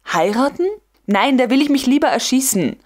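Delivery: Heiraten rising in disbelief, then a quick mock-horrified refusal; appalled at the idea, hurrying the refusal; mock horror. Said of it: "mit dem Ausdrucke wirklichen Entsetzens".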